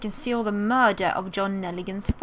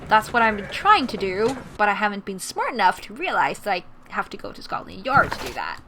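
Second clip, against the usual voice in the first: louder, rushing burst of sudden understanding; the penny drops, blurt it out; excited realization; 4 dB louder than usual. Real, not acted. Gamer suddenly cracks the case, excited and loud. Player suddenly solves the puzzle.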